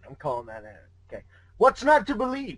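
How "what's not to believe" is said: smooth teasing purr; purring velvety voice. Acted. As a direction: purr it like Q from Star Trek. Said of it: "He purred in a velvety voice".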